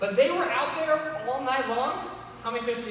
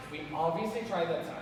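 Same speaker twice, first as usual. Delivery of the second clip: mock insulted; 6 semitones lower, 6 dB quieter than usual. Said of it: "I feel like as the disciples".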